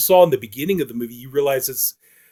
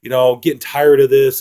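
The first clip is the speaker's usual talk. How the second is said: louder, impatient retold nagging; mildly angry urging, voice raised; getting angry; 5 dB louder than usual. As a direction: act out a woman losing patience, pushing each demand. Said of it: "starting to get angry with him".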